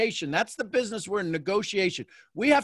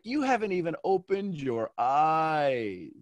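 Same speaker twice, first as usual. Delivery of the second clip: teasing reply; slower than usual. Retold or imitated. Teasing answer to the over-excited student.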